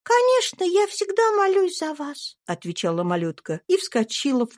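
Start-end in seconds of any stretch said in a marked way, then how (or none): 0.0-2.4 put-on high, bright child's voice; little girl Eva. A narrator's reading. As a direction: speak as a sweet little girl. (тонкий детский голосок)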